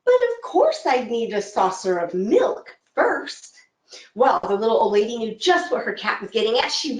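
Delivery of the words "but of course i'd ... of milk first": slow, purring cat voice, drawn out; a smug cat angling for a snack; talking cat. Acted. Storyteller as the cat, slow and drawn out. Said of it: "a very unusual thing for a cat".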